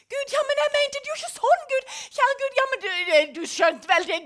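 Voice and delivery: pleading excuses. Retold or imitated. Sinner defending himself to God, fast and loud. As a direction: plead your case to God.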